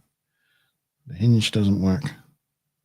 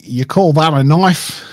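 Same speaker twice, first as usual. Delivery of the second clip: attempted Australian accent; 4 semitones higher, 6 dB louder than usual. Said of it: "I can't do a, an Australian accent".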